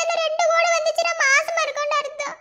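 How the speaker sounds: happy news told through tears; tearful. Acted. Young wife tells elder of a grandchild coming, tearful. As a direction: catch sobs between the phrases. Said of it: "அழுகாத".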